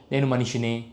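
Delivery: a hint of a wounded movie star; mock cinematic dialogue. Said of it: "ఇలాంటి cinematic డైలాగులు".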